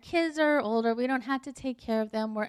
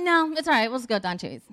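retold huffy giving in; a little irritated; 5 dB louder, much faster than usual. Irritated wife gives in to her husband, mildly huffy. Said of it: "a little irritated".

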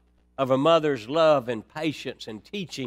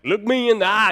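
a stern mama's demand, pitched higher and a bit louder; stern mother; 5 semitones higher, 5 dB louder than usual. Retold or imitated. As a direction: command it like a mother who won't be lied to. Stern mother scolding son.

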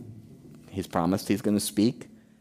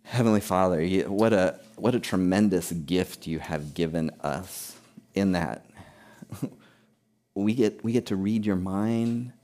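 closing prayer. Acted.

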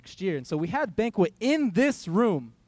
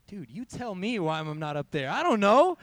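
frustrated outburst. Retold or imitated. Retelling his angry answer.

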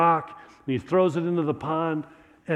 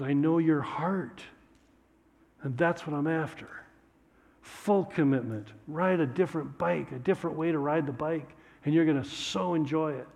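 God calmly inviting full commitment; gentle assurance; 4 dB quieter than usual. Acted.

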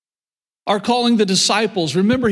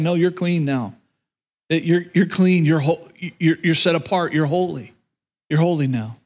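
tender reassurance; 3 semitones lower than usual. Acted. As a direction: ease him, tell him he's clean now. Angel reassuring Isaiah he is clean.

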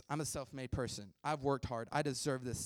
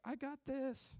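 higher, a light attempt at a Mexican-American accent; bad Mexican-American accent impression; 13 semitones higher, slower than usual. Speaker mimicking the sitcom catchphrase in a weak Mexican-American accent. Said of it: "That was not a good impression".

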